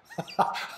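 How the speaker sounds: short breathy laugh of recognition; brief laugh of relief; joyful laugh. Acted. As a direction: let out a quick disbelieving laugh. Father recognizes his son.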